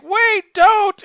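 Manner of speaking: high, loud cry of alarm; mock scream, drawn out and high; retold panicked yell. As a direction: yell it out high, imitating someone shoved off a roof. Retold girl pushed off roof.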